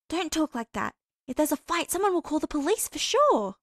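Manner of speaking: a friend fretting about trouble; lightly voiced worried girl. A narrator's reading. Girl warning her friend about a fight, mildly scolding.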